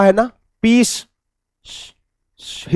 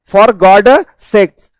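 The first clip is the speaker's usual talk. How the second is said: spelled out slowly; much slower than usual. Shown as a demonstration. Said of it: "कई बार आपने देखा होगा".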